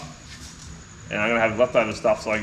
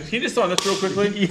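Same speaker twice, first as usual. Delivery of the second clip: imitating wife; 7 semitones higher than usual. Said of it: "Carly walks in".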